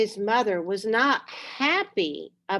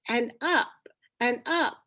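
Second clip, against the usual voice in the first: whispered climb; 4 semitones higher than usual. A narrator's reading. Climbing higher and higher.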